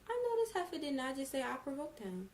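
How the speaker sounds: high-pitched, offended retort; incredulous retold comeback; indignant disbelief. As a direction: voice up, as if insulted. Indignant reaction to the mother's remark.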